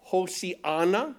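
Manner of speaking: Hosianna said slowly as ho-si-AN-na; Hebrew pronunciation. Shown as a demonstration. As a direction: draw out Hosianna with the extra i sound. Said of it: "In the Hebrew".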